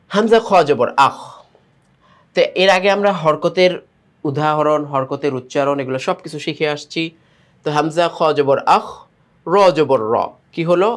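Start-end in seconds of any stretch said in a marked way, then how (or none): 0.1-1.2 letter names leading into one joined syllable "আখ"; word-reading demonstration. Shown as a demonstration. Teacher shows how to read such words, deliberate spelling into "আখ". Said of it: "শব্দগুলো আমরা কিভাবে পড়তে পারি". 7.8-10.1 each syllable spelled, then sounded by itself; syllable-by-syllable spelling. Shown as a demonstration. Teacher joins letters two by two, measured spelling of "আখ" and "র". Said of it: "দুইটা দুইটা করে আমরা মিলাবো".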